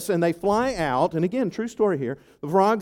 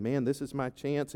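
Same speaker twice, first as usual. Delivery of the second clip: secret thought; 4 semitones lower, 9 dB quieter than usual. Acted. Haman's private thought.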